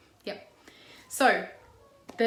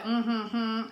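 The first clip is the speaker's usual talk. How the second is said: mock them as if you're better; a touch of smug mockery. Shown as a demonstration. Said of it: "so mocking tones, like".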